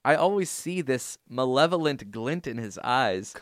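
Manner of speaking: dramatic reading of a fan email; reading an email aloud. Acted. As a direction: read the listener's letter with mock drama. Reads listener email aloud.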